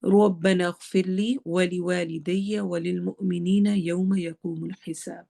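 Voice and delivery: slow, measured recitation of the dua. Shown as a demonstration. Teacher recites the second dua for the class, slow and even. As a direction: recite each word evenly and unhurried.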